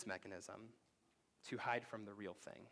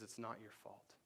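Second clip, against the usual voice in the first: soft reassurance; 6 dB quieter than usual. Retold or imitated. Therapist comforts Will.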